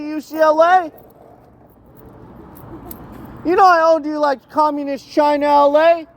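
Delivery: very high-pitched mock Chinese-accented threat; attempted Chinese accent. Pretend mafia boss ordering UCLA around, high mock Chinese accent. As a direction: taunt in a badly faked high Chinese accent. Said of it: "I don't think I could do a Chinese accent".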